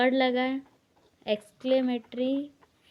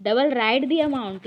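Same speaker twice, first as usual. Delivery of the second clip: slow and a little louder, word by word; slow wrong example; 5 dB louder, much slower than usual. Shown as a demonstration. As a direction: dictate the wrong order slowly. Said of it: "ये ऐसा sentence नहीं बनता". (गलत वाक्य धीरे धीरे)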